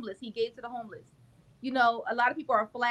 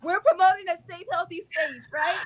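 reassuring; 6 semitones higher, 6 dB louder than usual. Real, not acted. Comforting a crying host.

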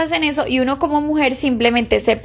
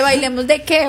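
mildly indignant comeback, half laughing; retold annoyed retort. Angry girlfriend answers happy ex, retold mild indignation. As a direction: throw the invitation back, mildly annoyed. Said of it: "Y yo llego súper enojada".

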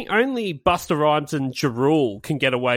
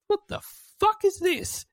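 high, soft baffled exec; mock record executive; 6 dB quieter than usual. Executive hearing the song for the first time. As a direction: sound baffled like a label boss. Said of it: "it's just gone".

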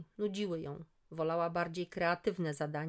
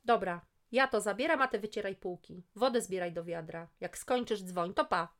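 parting shout; 6 dB louder than usual. Acted. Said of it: "Krzyknęła na pożegnanie".

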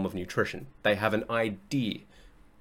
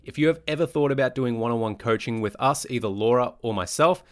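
ad read. Acted. Inserted ad read.

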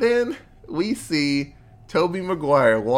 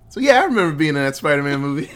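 laughing through it; 5 dB louder, faster than usual. Real, not acted. Repeating the joke, cracking up.

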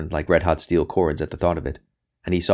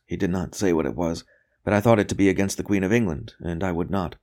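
faltering captive priest; 3 semitones higher than usual. Acted. Priest explains Babington's old approach to interrogator, hesitant.

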